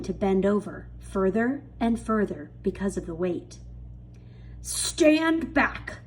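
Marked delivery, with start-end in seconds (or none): 4.6-6.0 high warning shout. A narrator's reading. Aunt Sponge warning them the branch will break, shout. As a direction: call the others back sharply. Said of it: "Aunt Sponge shouted".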